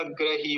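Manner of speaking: ग्रही as gra-hee, a instead of i; wrong gra. Shown as a demonstration. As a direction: demonstrate the mistake ग्रही with an open gra. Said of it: "ये गलत है". (ग्रही में 'ग्र', गलत उदाहरण)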